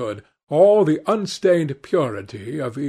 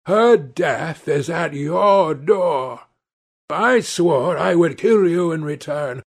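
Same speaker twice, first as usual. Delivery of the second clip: angry shout; 3 semitones higher than usual. Acted. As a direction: hurl the blame at him. Avenger accuses Dorian.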